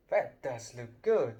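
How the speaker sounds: sad. Acted. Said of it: "said the ghost ... sadly".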